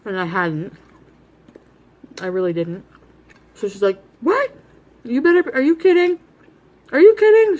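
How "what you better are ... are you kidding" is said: panicked high shout, rising to a cry; freaking out. Retold or imitated. Mom freaking out at her overdose threat, panicked yelling. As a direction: imitate mom's frantic disbelief. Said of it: "She was freaking out".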